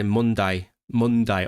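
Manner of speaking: Brummy "Monday", final syllable like "die"; Brummy accent. Shown as a demonstration. Streamer recalling slipping into Brummy, Brummy accent. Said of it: "slipped into, uh, Brummy".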